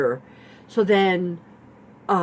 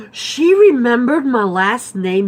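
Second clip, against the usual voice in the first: retold delight; 6 semitones higher, 8 dB louder than usual. Delighted she remembered her name.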